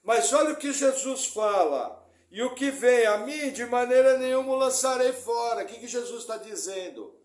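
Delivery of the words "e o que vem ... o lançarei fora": loud, solemn repeat of the verse; scripture reading. Acted. Pastor quotes Jesus to the congregation, loud and solemn. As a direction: proclaim it again with weight.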